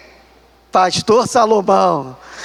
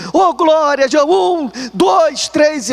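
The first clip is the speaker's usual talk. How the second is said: a hint of the pastor counting; mock preacher call; 4 semitones higher, much slower than usual. Pastor counting people coming forward.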